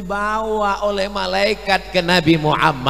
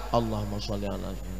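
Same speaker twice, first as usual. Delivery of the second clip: very low, barely audible murmur; weak, feeble salawat; 13 semitones lower, 15 dB quieter, faster than usual. Acted. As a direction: recite it as if too full to manage. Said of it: "Ini kalau solawatnya nggak kuat".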